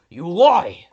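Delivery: loud, pointed accusation; accusing shout. Acted. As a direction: bellow the accusation. Accusing in court.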